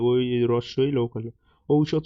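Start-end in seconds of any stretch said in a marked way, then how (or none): 1.7-2.0 ঔষধ said "ou-shodh", opening on an ou glide; correct pronunciation demo. Shown as a demonstration. Teacher showing an exam favourite, ঔষধ carefully as "ou-shodh". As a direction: sound the first vowel of ঔষধ as o-u. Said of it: "সঠিক উচ্চারণ হচ্ছে".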